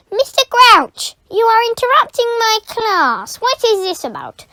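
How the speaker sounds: loud high indignant teacher; indignant rebuke. Acted. Teacher rebuking the caretaker for interrupting, indignant. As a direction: put him in his place.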